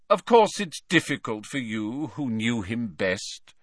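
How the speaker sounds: pat the big man kindly; Slughorn consoling. Acted.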